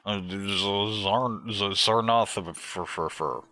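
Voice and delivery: slow, halting stumble over a made-up name; mock fumbling. Acting toymakers fumbling for a name.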